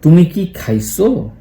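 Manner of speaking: slow, খাইছো stressed by mistake; a slow take, stress landing on খাইছো; wrong stress take. Shown as a demonstration. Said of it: "ও sorry, আমি ভুল বলছি".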